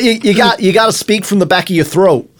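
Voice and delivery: American accent from the back of the throat. Shown as a demonstration. Host showing his remembered coaching phrase, American accent. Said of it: "that was really good".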